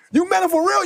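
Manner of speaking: high mock doubt; imitating Will. Will doubting the fan, high teasing question. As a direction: ask it high with teasing disbelief.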